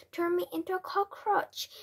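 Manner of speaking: high-pitched, incredulous echo; scornful shout. A narrator's reading. Father scoffs at the witch's powers, high indignant exclamation. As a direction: throw it back in high indignation. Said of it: "shouted Mister Jenkins".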